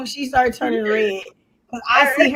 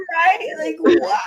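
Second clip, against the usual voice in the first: high squealing laughter; laughing shriek; 5 semitones higher than usual. Real, not acted. Cracking up at the call.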